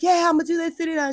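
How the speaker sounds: high, breezy hype; excited self-talk. Retold or imitated. Imitating herself eagerly telling her therapist the plan. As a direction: brush it off with eager confidence. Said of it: "I was like".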